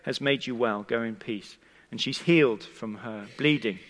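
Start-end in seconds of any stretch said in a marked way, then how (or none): 0.0-1.6 softly reassuring, dropping lower at the end; quiet, tender retold blessing. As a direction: gently send her off, voice sinking. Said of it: "looks her in the eye very tenderly".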